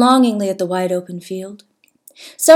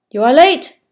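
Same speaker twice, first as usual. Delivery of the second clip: complaining; 6 semitones higher, 7 dB louder than usual. A narrator's reading. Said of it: "Zachariah complained".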